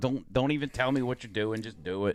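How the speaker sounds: ordinary talk, nothing marked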